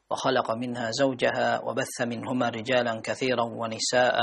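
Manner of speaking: fluent, even-pitched Quranic recitation; measured liturgical Arabic reading; Arabic sermon opening recitation. Real, not acted. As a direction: recite the opening verses in a steady, unbroken flow.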